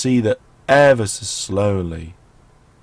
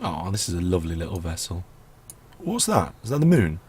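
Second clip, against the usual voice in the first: sore throat voice; 2 semitones lower, 5 dB quieter than usual. Real, not acted. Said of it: "I have got a sore throat".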